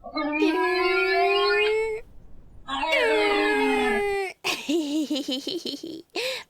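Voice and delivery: high giggly outburst; high giggling. Real, not acted. Long loud noise with giggling.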